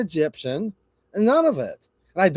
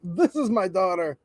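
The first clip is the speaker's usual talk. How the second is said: a light put-on voice of a muddled old man; lightly voiced bewildered old man introducing his daughter; confused old man impression. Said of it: "doing that impersonation".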